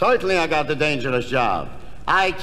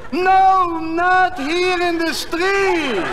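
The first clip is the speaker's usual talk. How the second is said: high, loud, stretched-out panic; exasperated high yell; alarmed shout; 9 semitones higher, 3 dB louder, much slower than usual. Acted. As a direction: shout to stop a foolish partner. Boss stops partner drawing guns.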